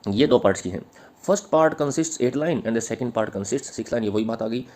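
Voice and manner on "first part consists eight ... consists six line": slow, measured dictation pace, each word spaced; slow dictation to the class. Acted. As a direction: read it out slowly so students can write. Dictating answer lines.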